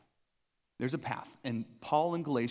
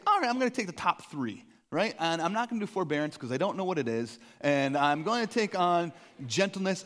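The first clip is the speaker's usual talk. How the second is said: mock resolution; 3 semitones higher, 4 dB louder than usual. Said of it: "you might say".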